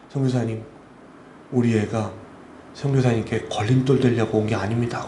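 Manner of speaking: low, gently voiced reassurance; retold grieving mother. Bereaved mother consoling the missionary, low retold reassurance. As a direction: lightly voice a mother, pitched low. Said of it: "그 어머니가 제 손을 탁 잡으시면서".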